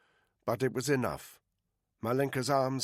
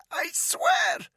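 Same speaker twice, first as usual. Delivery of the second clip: high, loud, strangled cry; panicked plea; 3 dB louder than usual. Acted. Captive choking under the rope, crying out high and loud. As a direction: scream it out as the rope tightens. Rope twisted harder on her neck.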